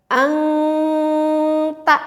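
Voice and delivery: angta with a full ng before ta; wrong nasal in angta; wrong ikhfa. Shown as a demonstration. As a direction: say angta, ng at the back of the throat. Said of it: "kurang tepat".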